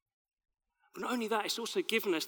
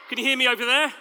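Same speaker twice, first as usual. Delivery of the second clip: calling loudly to the back; shouting across a field; 4 semitones higher, 6 dB louder, faster than usual. Real, not acted. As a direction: raise your voice to reach the far side. There we go.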